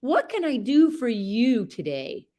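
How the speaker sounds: high, sugary offer to the horse; sweet asking voice. Pretend. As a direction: coo it like a doting servant. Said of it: "ask him, like".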